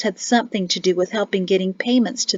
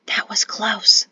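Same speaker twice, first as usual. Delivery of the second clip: slow breathy whisper; slower than usual. A narrator's reading. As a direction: whisper it slowly. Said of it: "she whispered to her brother".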